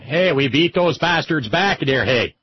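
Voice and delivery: slowed, drawled Southern gloat, lightly voiced; corrected accent. Correcting the accent for Albert, a slow Southern gloat. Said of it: "Oh, I'm sorry, wrong accent".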